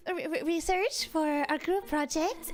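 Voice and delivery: bashful stammering invite; shy invite. Acted.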